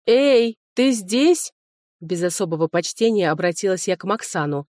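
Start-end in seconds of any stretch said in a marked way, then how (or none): 0.1-1.5 high, loud call into silence. Acted. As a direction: call out to someone unseen. Calling out to the dragon.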